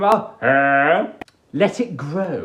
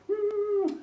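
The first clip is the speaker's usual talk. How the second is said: a high, soft pleased hum; high contented hum; 7 dB quieter than usual. Pretend. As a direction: hum high like someone relaxing into the job. Masseuse hums contentedly.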